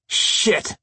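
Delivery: whispered curse through a door; muffled voice outside. Acted. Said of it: "came a muffled voice from outside".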